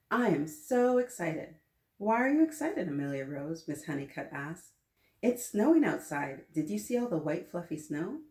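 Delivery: lively storybook read-aloud; animated picture-book narration; reading to children. A narrator's reading. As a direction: read it to a class of kids.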